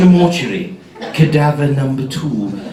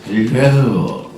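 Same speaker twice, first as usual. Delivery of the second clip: low duck-like croak; a duck with a fortune cookie in the throat; low, croaky agent hello; agent's voice; 7 semitones lower than usual. Retold or imitated. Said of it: "They talk like that, a cross between a duck".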